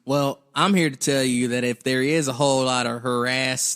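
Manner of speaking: harass said HAIR-ass, stress on the first part; funny pron. Shown as a demonstration. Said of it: "the way we're saying it".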